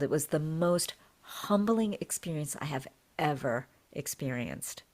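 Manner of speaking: usual speaking voice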